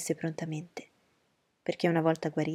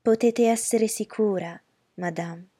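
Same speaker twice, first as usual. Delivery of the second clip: cold courtesy; 4 semitones higher, 5 dB louder, slower than usual. Acted. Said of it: "con fredda cortesia".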